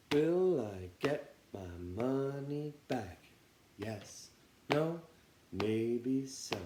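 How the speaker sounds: slow, drawn-out turtle chant. Shown as a demonstration. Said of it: "we're gonna try it like a turtle".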